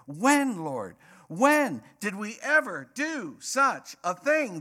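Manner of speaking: high-pitched, incredulous protest; aghast. Acted. Goats answering the Lord's judgment, aghast. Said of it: "They were aghast".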